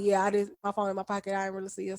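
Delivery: soft, fading hush, trailing away; said real low. Retold or imitated. Cashier brushing off the man at work, hushed and fading. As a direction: mumble it low so nobody nearby hears. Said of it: "she was kinda saying it real low".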